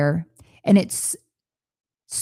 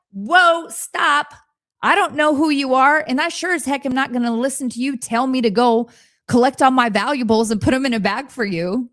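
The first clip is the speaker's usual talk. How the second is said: startled stop; 5 semitones higher than usual. Pretend. Confronting an unknown aggressive voice.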